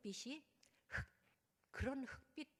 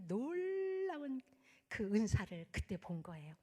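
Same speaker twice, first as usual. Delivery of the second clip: whispered in awe; awed whisper; slower than usual. Real, not acted. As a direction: hush it as a sacred secret. Awed testimony climax.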